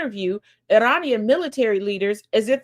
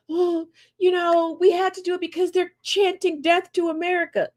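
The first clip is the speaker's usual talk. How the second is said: mock critic; 7 semitones higher than usual. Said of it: "for those that are like".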